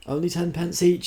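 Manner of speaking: chirpy charity collector pitch; sweetly pushy sales chirp; prim raffle woman. A narrator's reading.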